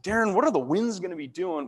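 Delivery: Southern-accented mimicry of a coworker. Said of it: "this southern accent".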